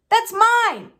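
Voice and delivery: put-on high, loud boy's cry of protest; snatch back what's yours, loudly; indignant cry. Boy protesting as his uncle takes his letter, high and loud.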